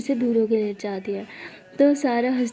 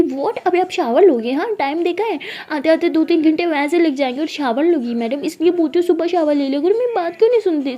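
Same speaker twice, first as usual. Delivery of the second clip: scolding aunt; 5 semitones higher, 4 dB louder than usual. Acted. Taya scolds about late shower.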